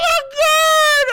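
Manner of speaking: high shocked yell; shocked shout. Real, not acted. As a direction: shriek in disbelief.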